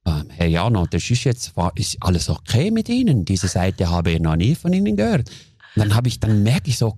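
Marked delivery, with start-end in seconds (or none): 0.1-5.3 much lower, careful caller voice; calm caller. Retold or imitated. Business caller nervously checking on him, lowered voice. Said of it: "am Telefon ganz ruhig".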